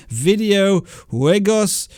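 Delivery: slow, halting attempt at a Spanish accent; terrible Spanish accent. Real, not acted. Host struggles through a foreign channel name, clumsy Spanish accent. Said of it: "apologies for my terrible accent and mispronunciation".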